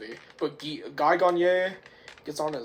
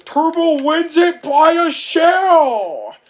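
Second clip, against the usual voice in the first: high, slow, shouted finish-line call; race announcer; 12 semitones higher, 13 dB louder, slower than usual. Retold or imitated. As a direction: stretch it out like a roaring announcer. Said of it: "and the announcer says".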